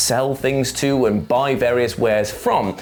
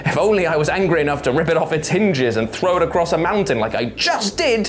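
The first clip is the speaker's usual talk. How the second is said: mock-indignant warrior god; hammed-up boastful grumbling; Kratos; 3 semitones higher than usual. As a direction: play the thwarted tough guy. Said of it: "He's like".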